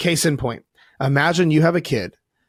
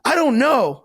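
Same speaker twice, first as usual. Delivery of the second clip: put-on little kid unsure; 10 semitones higher, slower than usual. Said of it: "He goes".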